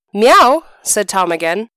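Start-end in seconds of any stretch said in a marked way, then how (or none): 0.1-0.6 cat meow. Acted. The cat Tom answers again.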